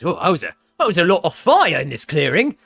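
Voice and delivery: gruff NPC voice. Acted. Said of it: "He kinda limps over and he says".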